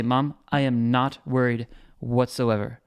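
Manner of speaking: slow, measured reassurance; unworried. Pretend. Telling his mom how he feels about trading, unworried. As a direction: assure firmly, word by word. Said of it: "hear it in my tone".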